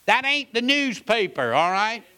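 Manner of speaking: high, loud "Whoa" then a pointed rebuke; startled exclamation. Retold or imitated. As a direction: call out a careless reader, shocked. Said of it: "I wanna say".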